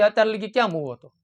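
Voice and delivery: a touch of a gruff father snapping at his late son; mildly scold, rough and blunt; mock harsh scolding. Shown as a demonstration. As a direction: parent mildly scolding a son home at midnight. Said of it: "તો કેટલો તફાવત થાય".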